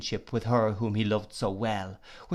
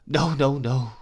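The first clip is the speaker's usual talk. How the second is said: higher, louder tearful no's; crying out no, higher and louder; sobbing denial; 3 semitones higher, 5 dB louder, slower than usual. Acted. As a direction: shake it off through sobs. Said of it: "cried Emily, sobbing".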